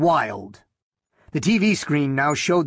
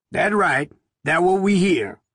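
Haskins voice; 4 semitones higher than usual. A narrator's reading.

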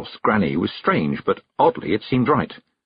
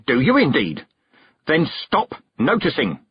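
commanding shout; 6 semitones higher than usual. Acted. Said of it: "The shout echoed off the cliffs, full of command".

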